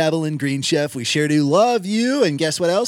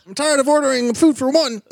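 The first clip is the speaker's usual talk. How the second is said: high, loud, fast lonely caller; 7 semitones higher, 4 dB louder, faster than usual. Pretend. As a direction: play a hammy lonely caller. Co-host plays lonely caller.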